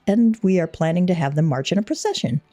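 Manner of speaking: lightly voiced courtly envoy, measured; formal delegation head. Envoy greets adventurer about the festival, lightly formal. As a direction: read it as ceremonial, formal oratory. Reads the delegate's game dialogue.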